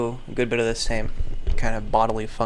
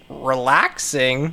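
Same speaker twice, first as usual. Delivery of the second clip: skeptical relaxing; slower than usual. Real, not acted. Doubting caption word.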